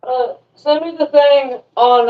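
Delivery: distant echo through a speaker; line replayed over a speaker; bluetooth speaker. Real, not acted. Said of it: "I connected my speaker, and it, it played something".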